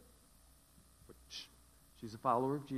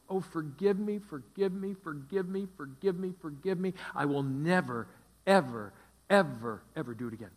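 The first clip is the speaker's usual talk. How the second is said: higher, louder, desperate begging; begging husband; 4 semitones higher, 7 dB louder than usual. Retold or imitated. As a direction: beg her over and over, voice up high.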